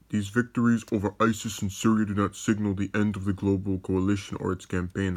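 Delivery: lightly put-on presidential impression; slightly altered voice, reading a statement as the president; Trump voice. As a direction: read it with a hint of a politician impersonation. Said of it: "I read that in my Trump voice".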